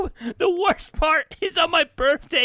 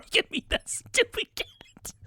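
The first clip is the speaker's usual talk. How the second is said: spiteful whisper; 5 semitones higher, 6 dB quieter than usual. Acted. Mom whispering her spite about the cat. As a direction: hiss the insult under your breath.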